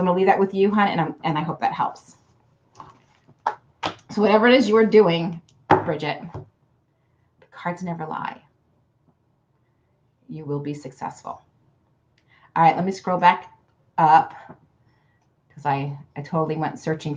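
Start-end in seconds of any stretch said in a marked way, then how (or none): 5.8-11.4 slow, much softer oracle voice; a fortune teller's dramatic hush; hushed mystic pronouncement. Acted. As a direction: let the cards speak, hushed and slow. Tarot pronouncement to viewer.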